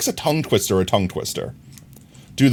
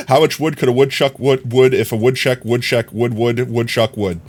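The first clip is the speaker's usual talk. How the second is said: tongue-twisted attempt. Shown as a demonstration. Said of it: "try to say that without twisting".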